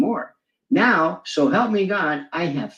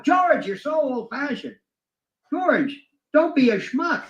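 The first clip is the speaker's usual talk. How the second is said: scoffing; 7 semitones higher than usual. Retold or imitated. Mocking reply to Orwell.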